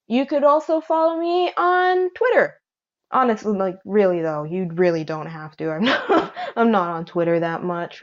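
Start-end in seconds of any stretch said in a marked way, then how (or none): 5.7-8.0 laughing. Real, not acted. Laughing off own Twitter plug.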